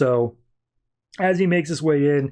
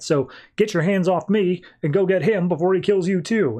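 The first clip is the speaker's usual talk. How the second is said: higher-pitched mock exasperation; indignant scolding; 4 semitones higher than usual. Constantine bluffing the demi-wolf as his backup, indignant scolding. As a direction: tell off an underling, lightly acted.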